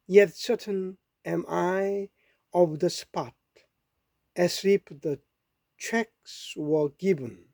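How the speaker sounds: very slow, measured English verse reading; poem recitation. Acted. Reading a Dickinson poem to listeners, slow recitation. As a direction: recite slowly, pausing between phrases.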